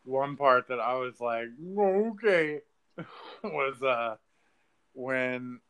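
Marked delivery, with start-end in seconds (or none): 1.8-2.6 taken-aback okay. Retold or imitated. Retold reaction to a film scene.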